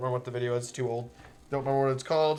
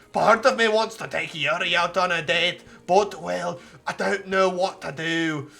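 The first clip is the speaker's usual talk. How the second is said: lightly voiced pirate narrator; 3 semitones higher, 6 dB louder than usual. Streamer reading the novel's narration aloud, faint pirate voice. Reads game text in voice.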